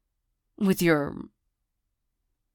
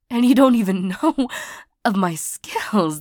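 exasperated; 3 semitones higher, 3 dB louder than usual. Acted. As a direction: protest in exasperated disbelief. Hurt, arguing with the ex.

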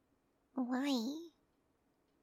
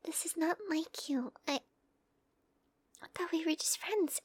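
higher, flustered protest; startled; 4 semitones higher than usual. Acted. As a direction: back off in surprise. Startled by partner's advance.

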